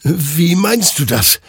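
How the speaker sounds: high, slow, bewildered question; confused stammer. A narrator's reading. Hektor questions the souls' answer, stammering confusedly. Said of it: "stammelte Hektor verwirrt".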